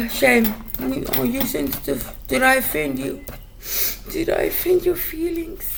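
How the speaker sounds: mock the viewer's hurt feelings; mocking taunt. Real, not acted. Taunting viewers who might be offended, sarcastic mock sympathy.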